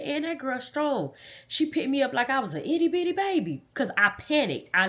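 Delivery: high-pitched, trying not to cry; holding back tears. Real, not acted. Recalling her grandma's praise, holding back tears. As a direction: fight back real tears while quoting her. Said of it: "I'm trying not to cry".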